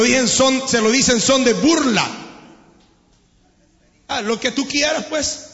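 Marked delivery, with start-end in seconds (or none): 4.1-5.5 softer, dismissive shrug of a line; sarcastic brush-off. Retold or imitated. Husband dismissing his wife, soft sarcastic shrug. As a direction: brush her off with fake agreement. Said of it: "¿Verdad que así le dice?".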